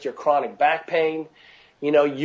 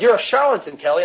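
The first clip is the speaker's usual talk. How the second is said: imitating his annoyed wife, higher and louder; a playful, hammed-up scolding; teasing outrage at her husband; mock angry accusation; 4 semitones higher, 3 dB louder than usual. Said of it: "she was pissed".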